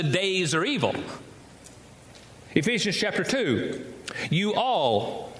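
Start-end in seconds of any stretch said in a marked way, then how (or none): 4.3-5.3 southern accent. Shown as a demonstration. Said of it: "sounds like a southern accent".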